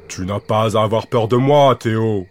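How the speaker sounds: voix de monstre un peu plus grave, adoucie; un gros monstre qui rassure doucement; grosse voix douce. Acted. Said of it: "d'une grosse voix qu'il tente de rendre toute douce". (le monstre rassure Théo d'une grosse voix douce)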